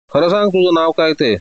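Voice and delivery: ordinary delivery, nothing marked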